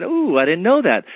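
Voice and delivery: acted "ooh" of dawning empathy; sudden realisation. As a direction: react as if it has just clicked. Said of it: "like a switch got clicked".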